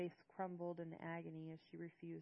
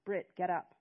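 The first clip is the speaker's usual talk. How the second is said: demanding; 11 dB louder than usual. A narrator's reading. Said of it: "my father demanded".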